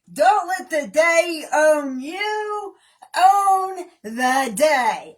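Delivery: drawn out, every word weighted; slow emphatic motto. Acted. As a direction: deliver it like a slogan. Quoting a motto slowly.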